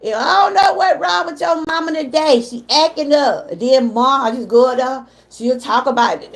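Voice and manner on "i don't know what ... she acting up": raised mock-exasperated auntie voice; auntie complaining. Niece retelling her aunt's phone call, raised and exasperated. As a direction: play the fed-up auntie calling about her sister.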